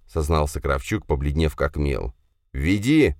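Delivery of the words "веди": growl. Acted. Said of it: "зарычал я".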